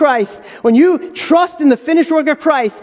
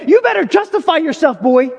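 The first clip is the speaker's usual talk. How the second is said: stern father; 4 semitones higher than usual. Retold or imitated. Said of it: "I would never say it like that".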